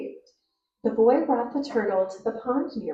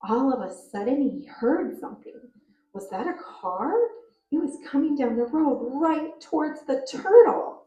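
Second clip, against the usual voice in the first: rising to an excited, louder finish; expressive storytelling, alarm at the end; expressive reading; 4 semitones higher, 4 dB louder than usual. Shown as a demonstration. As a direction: read it like the story matters, building to the car. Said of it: "But when I use expression".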